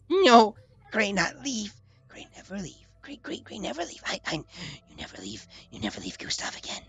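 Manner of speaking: broken-English creature voice, pleading; cling and beg like a needy pet; clingy little creature. Acted. Gustav clinging, broken speech.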